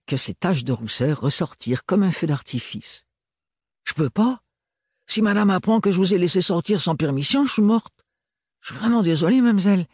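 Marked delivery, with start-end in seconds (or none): 3.8-4.4 put-on "Je peux pas" in a high maid's voice with a thick provincial French accent; firm refusal, stress on "pas". A narrator's reading. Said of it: "L'accent très prononcé de l'adolescente". 5.1-9.9 put-on high young maid with a thick provincial French accent; a country girl's strong regional accent, pitched up high. A narrator's reading. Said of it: "soupira Pistache".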